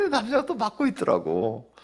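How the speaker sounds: amused disbelief bubbling into the words; high laughing voice; incredulous laughing. Real, not acted. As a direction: talk through a laugh, pitched high. Incredulous laugh while retelling.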